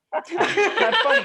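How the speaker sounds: high, slow, breaking into a laugh; mock serious. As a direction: try to keep a straight face and fail, laughing. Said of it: "supposed to be stone cold serious".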